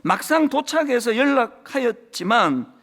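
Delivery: heartfelt public reading; reading aloud. Acted. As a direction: read the story out to the congregation. Reads newsletter story aloud.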